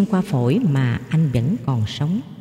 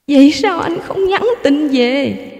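reproachful wife; 10 semitones higher, 4 dB louder than usual. A narrator's reading. Wife reproaches husband, high.

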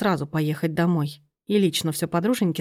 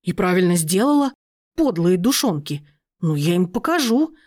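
louder, vengeful resolve; fired-up anger; 3 dB louder than usual. Acted. Aunt, vowing revenge on her friend, loud angry. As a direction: rise up ready to get even. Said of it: "взвилась тётка".

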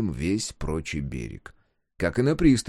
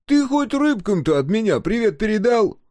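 high, loud mocking shout; loud jibe called out high; teasing jeer; 13 semitones higher, 6 dB louder than usual. A narrator's reading. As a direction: needle him with a pleased joke. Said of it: "Ухмыл загоготал, довольный своею шуткой".

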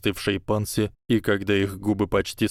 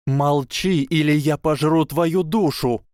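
мрачная угроза; 7 semitones higher, 4 dB louder than usual. Acted. Трейси угрожает Панси.

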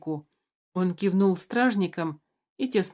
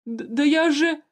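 stammering; 8 semitones higher, 4 dB louder than usual. A narrator's reading. Stammering plea.

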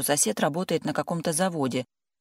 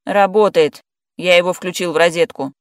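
loud joking reply; 3 semitones higher, 11 dB louder than usual. A narrator's reading. Joking shout through the door.

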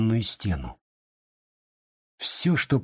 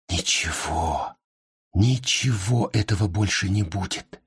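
sad; 4 semitones lower than usual. A narrator's reading. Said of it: "печально повторил про себя Сергей".

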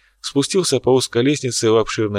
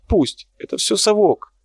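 hysterical outburst; 3 semitones higher than usual. Acted. Artist's outburst at critics.

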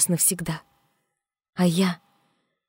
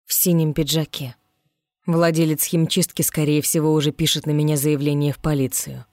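ironic; 2 semitones lower than usual. Acted. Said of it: "Иронично сказал Ригель".

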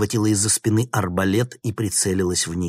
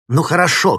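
much higher and louder yell; shouting; 10 semitones higher, 9 dB louder than usual. A narrator's reading. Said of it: "крикнул Никита".

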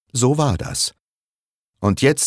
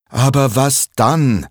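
annoyed; 7 semitones higher, 4 dB louder than usual. Acted. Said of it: "fragt Lars genervt".

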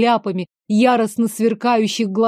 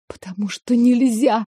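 usual speaking voice

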